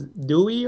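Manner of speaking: Dewey said as "DOO-ee"; Dewey with no final S; suggested pronunciation. Retold or imitated. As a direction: offer Dewey with a final "ee", unsure. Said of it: "I think he said it was".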